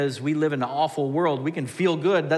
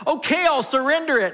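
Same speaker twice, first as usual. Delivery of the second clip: mock resigned surrender; 12 semitones higher, 7 dB louder than usual. Giving in to God.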